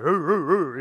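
loud playful "roo, roo, roo" grunts; manly grunting. Pretend. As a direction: grunt like a proud guy, playfully. Imitates manly grunting to congregation.

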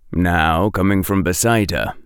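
ordinary delivery, nothing marked

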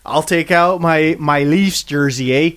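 put-on Canadian accent. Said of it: "slip into your Canadian accents".

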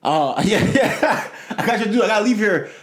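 high, pushy mock of the client; impatient caller. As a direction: client refusing to come to the office. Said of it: "He's like".

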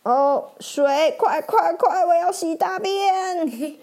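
silly urgent chatter with a giggle; giggly ferret. Acted. Ferret urging the boss to hurry with water, giggling. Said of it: "雪貂补充说".

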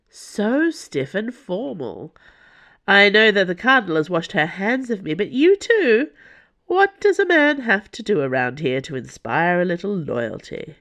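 put-upon lord, rising to a protest; theatrically wounded lord. Acted. Lord protesting to his captors about their lack of loyalty, theatrically wounded.

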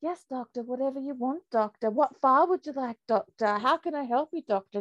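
mocking servile yes-doctor voice; mock subservient. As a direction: parody the eager handmaiden, syrupy and over-obliging. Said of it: "The interview answer is".

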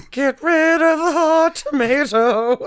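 high, slow words through laughter; cracking up mid-sentence; laughing. Real, not acted. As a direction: laugh it out as you say it.

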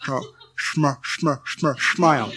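sm-, sm-, sm-, smile sounded out, then the whole word; sounding out words. Retold or imitated. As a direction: stutter the sm before smile. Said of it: "occasionally adds this to the smile".

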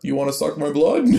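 mock Transylvanian vampire line; Transylvanian accent. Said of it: "speak with a Transylvanian".

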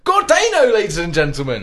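big booming announcer. Acted. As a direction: announce it to the crowd. Host announcing the show.

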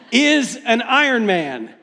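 slow, laughing mock announcer proclaiming it; race announcer. Announcer at the Ironman finish line declaring a finisher, slow mock proclamation. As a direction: drag out the big announcement with a laugh. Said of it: "this guy announces it".

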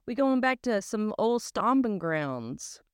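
high excited ooh; light up at the memory. Real, not acted. Sister thrilled to revisit childhood stomping grounds, excited. Excited about Cajun country.

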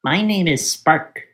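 high, slow little fire-cat voice; playful voice of a baby cat; cute creature voice. Pretend. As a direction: pitch it up high and draw it out. Voicing the new fire cat.

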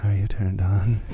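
low breathy mock seduction; sultry whisper. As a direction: whisper it like a joke come-on. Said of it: "That was a weird".

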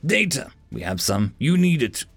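forceful, clipped demands; insistent. Acted. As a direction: press the point hard. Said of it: "Something about her tone of voice".

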